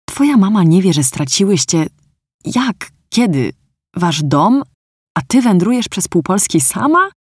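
mock angry cry at the girl's news; shouting in his head. A narrator's reading. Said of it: "krzyknął w myślach". (oburzony okrzyk, wyżej)

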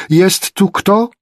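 high, slow, loud call; drawn-out holler searching for someone; shouted question. A narrator's reading. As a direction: call out slowly, rising at the end. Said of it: "krzyczała wręcz".

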